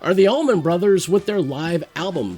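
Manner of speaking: polished show-intro read; announcer read. Acted. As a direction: present the matchup like a host. Reads the round intro.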